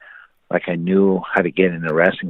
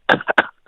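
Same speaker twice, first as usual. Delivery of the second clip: imitated winded coughing. Wrestler slammed on his back, mock coughing. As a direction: act out coughing with the air knocked out. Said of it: "coughing because it took the air out of me".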